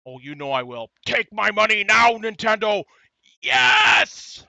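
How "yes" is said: much higher, airy breathless yes; breathless cheer. Real, not acted. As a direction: cheer with the last of your breath. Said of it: "I think I'm out of breath".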